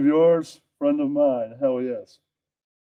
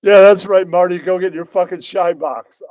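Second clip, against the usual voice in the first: tough mobster; 3 semitones higher, 5 dB louder than usual. Acted. Loud mobster role line.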